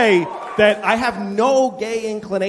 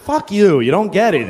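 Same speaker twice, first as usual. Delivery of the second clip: mock angry retort; 3 semitones higher, 5 dB louder than usual. Snapping back at skinny friend.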